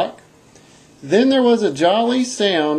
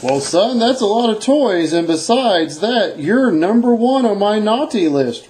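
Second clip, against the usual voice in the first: lightly voiced stern Santa; a hint of a scolding Santa; 3 semitones higher than usual. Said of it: "replied Santa".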